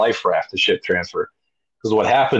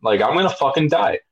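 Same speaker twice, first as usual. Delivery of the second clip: higher, panicky whine; panicked; 6 semitones higher than usual. Retold or imitated. Rower at the rope climb, mock panic. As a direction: plead that you can't do it. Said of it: "I'm like".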